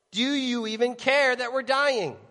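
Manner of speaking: drawn-out, acted disbelief; indignant plea. Frightened sailors challenge the sleeping Jesus, indignant.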